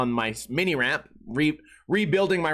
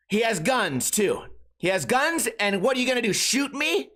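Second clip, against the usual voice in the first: higher, mock hysterical accusing; mock date accusing; 5 semitones higher than usual. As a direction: ham up her wild accusations to mom. Imitating date's wild accusations.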